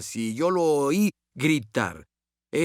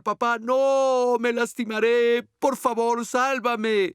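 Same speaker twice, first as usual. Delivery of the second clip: put-on much higher, slow, begging child's voice; crying little boy; 8 semitones higher, slower than usual. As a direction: imitate a tearful child pleading not to let go. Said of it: "Y él comenzó a llorar".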